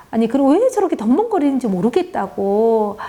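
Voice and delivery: a mild mock scolding of the child; continued scolding. Friend keeps scolding her clumsy child, mild mock anger. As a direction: grumble at the child's clumsiness, lightly acted. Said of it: "계속 야단을 치는 거예요".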